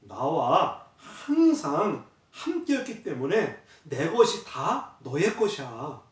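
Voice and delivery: a hint of a tender father comforting; gentle father. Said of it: "아버지가 뭐라 그랬냐면".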